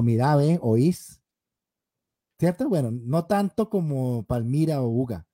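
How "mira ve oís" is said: drawled caleño "Mira, ve, oís"; caleño accent. Shown as a demonstration. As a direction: stretch it out like a caleño. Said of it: "hablamos más arrastradito". (acento caleño arrastrado)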